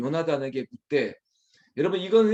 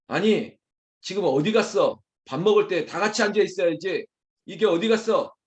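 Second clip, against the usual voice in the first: raised, louder snap at family; irritated, higher-pitched demand; snapping; 3 semitones higher, 3 dB louder than usual. Acted. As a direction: snap accusingly at whoever is missing. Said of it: "쏘아붙인다며 이거 참 난감하겠죠".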